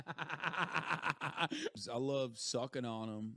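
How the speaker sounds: silly clown. Pretend. Very low put-on voice.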